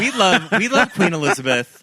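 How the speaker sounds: gruff send-up of royal fandom; deep mock voice. Friend does a deep voice praising the queen, lightly put-on. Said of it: "not the deep voice".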